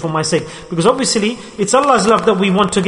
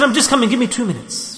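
husband putting wife off; 6 semitones higher than usual. Retold or imitated. Husband pleading for two minutes.

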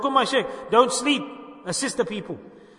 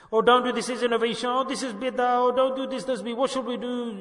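imitating worriers in a higher pitch; fretting objectors; 4 semitones higher than usual. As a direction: rattle off mock objections, pitched up. Mimics people fretting over rulings.

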